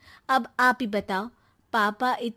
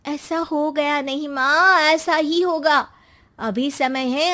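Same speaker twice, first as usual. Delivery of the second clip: pushy daughter; 4 semitones higher, 4 dB louder than usual. Acted. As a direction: push mom toward divorce. Daughter urges divorce.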